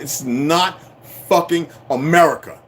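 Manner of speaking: "not fucking America" in separate punched chunks; emphatic denial. Real, not acted. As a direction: pause before "fucking", then land "America" firmly. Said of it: "I'm gonna say it again".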